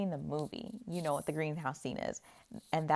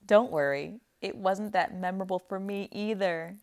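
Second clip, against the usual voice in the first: mock cutting retort; 4 dB louder than usual. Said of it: "And he says".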